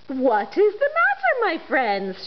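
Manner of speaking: a touch of a gentle little engine; kindly asked. Acted. Little blue engine greeting the toys, kindly. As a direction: ask with care. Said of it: "she asked kindly".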